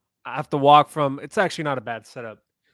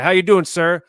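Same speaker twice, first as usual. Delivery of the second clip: retold greeting; 5 semitones higher, 8 dB louder, slower than usual.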